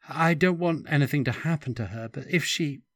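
high, fast anxious plea; anxious pleading. Acted. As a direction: rush it out in worry.

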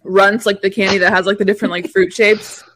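talking through a mouthful; chewing crackers while talking; mouth full. Real, not acted. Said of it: "I'm trying to eat these crackers".

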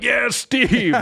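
high-pitched imitation of a rooting crowd; mock crowd cheer. Retelling how the crowd greeted Steve, high mock cheer. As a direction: call it out high, stretching the name.

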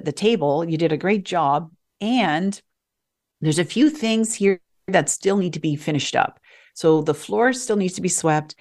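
put-on a parent praising a child about chores; positive encouragement. Shown as a demonstration. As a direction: praise first, then gentle next steps. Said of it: "So you could say".

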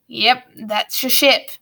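put-on slow, unpleasant old master; gruff schoolmaster. Grumpkin answering the orphans about the ship, slow and sour. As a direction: drag it out with sour relish.

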